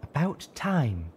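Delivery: dry remark. A narrator's reading. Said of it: "silently saying".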